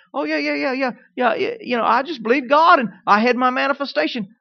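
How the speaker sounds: mock-casual gushing testimony, quick string of yeahs; breezy testimony. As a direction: imitate someone breezily bragging about their faith. Mimics a breezy testimony giver.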